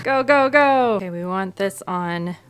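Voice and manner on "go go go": laughing, loud go go go; excited hurry. Real, not acted. Rushing to the beeping microwave.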